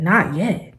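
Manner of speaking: disbelieving question, rising; incredulous echo. Retold or imitated. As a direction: repeat it in disbelief. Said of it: "And I said".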